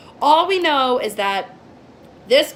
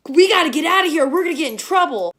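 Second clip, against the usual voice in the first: mock panic; 5 semitones higher, 4 dB louder, faster than usual. Mocks the friends' reaction.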